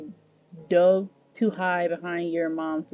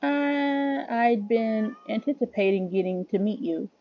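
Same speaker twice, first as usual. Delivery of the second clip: put-on lightly raised, eager young boy; a hint of a proper little gentleman; polite boy voice; 2 semitones higher than usual.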